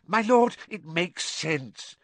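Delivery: high servant voice, easing after a loud start; relieved. A narrator's reading. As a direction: seize on the master's agreement eagerly. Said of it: "sounding thoroughly relieved now".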